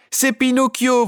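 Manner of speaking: high, loud shout with stress on C'est. A narrator's reading. Puppets rushing from the wings, shouting his name. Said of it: "vociférèrent en chœur tous les pantins".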